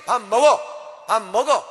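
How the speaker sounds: loud barked order; commanding shout. Retold or imitated. Parent ordering child to eat, loud commanding shout. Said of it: "명령형이에요".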